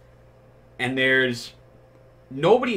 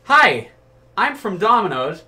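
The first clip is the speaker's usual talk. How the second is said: laughing; 8 semitones higher than usual. Retold or imitated. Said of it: "and I'm like".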